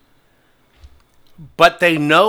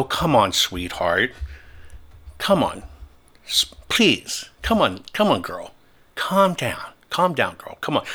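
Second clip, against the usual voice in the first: low, soft, patronizing coo; condescending taunt; 4 semitones lower, 5 dB quieter than usual. Retold or imitated. To the big protester at the airport, low patronizing taunt. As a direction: talk down to him like calming a pet. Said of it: "I started screwing with his head".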